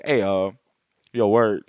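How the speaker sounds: a hint of Batman casually asking the villain; imitating Batman.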